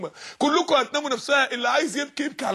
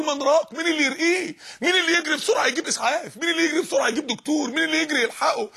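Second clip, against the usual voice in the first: urgent higher-pitched calls for help; panicked onlookers around the dying; frantic bystanders; 4 semitones higher than usual. Acted. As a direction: plead for someone to run, pitch raised. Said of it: "والناس تحت بتقول".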